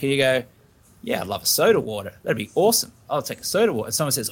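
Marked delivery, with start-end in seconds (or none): 1.0-3.9 breezy acted acceptance, lifting in pitch; lightly played cheerful confidence; confident and lighthearted. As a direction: say it with an easy smirk. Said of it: "your confidence and you're lighthearted and you've got a smirk".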